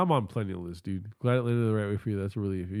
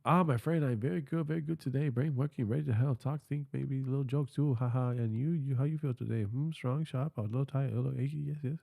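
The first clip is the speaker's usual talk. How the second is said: higher, softer mock Asian accent; stereotypical Asian accent; 4 semitones higher, 3 dB quieter than usual. AI assistant answering how it feels, stereotypical Asian accent. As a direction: keep up a chirpy sing-song stereotypical Asian accent. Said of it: "Keep the voice".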